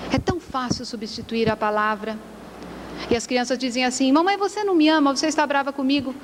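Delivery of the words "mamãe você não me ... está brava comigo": put-on quick, higher child's plea; lightly voiced child, hurried; child to mother. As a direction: rush it out like an upset child. Children's worried words to their mother.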